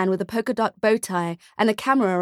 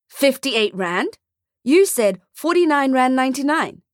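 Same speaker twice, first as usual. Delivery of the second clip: indignant; 5 semitones higher, 4 dB louder than usual. A narrator's reading. Father indignant at price.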